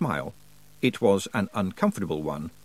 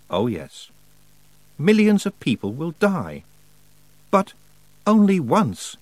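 Wintersmith voice; 5 semitones higher than usual. Acted. Wintersmith rapturously telling Tiffany of a frozen world. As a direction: savour the end of the world like a gift.

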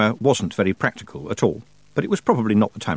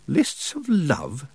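baffled echo; 4 semitones higher, much slower than usual. Acted. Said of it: "It was getting worse".

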